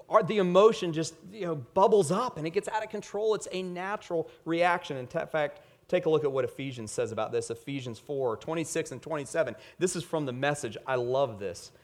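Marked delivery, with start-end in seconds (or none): none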